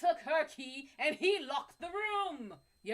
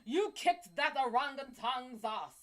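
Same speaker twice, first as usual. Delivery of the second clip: doting praise; 3 dB louder than usual. Pretend. Praising the guy for beating the orangutan, hammed-up. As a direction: flatter him grandly. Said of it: "You tell him".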